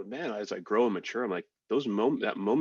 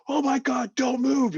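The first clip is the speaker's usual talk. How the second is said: high, loud imitation of alarm; mock panicked warning; 7 dB louder, slower than usual. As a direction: blurt it like a panicking rescuer in a retold story. Voicing the alarmed medic after landing.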